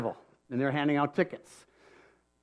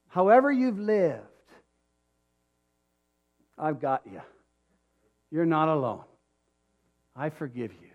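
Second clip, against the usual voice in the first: tender voice of God. Acted. Pastor voicing God, forgiving the listener, tender.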